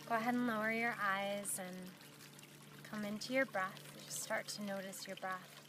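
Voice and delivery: unhurried meditation guide with long pauses; guided meditation. Acted. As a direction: gently lead them inward, leaving long silences between phrases.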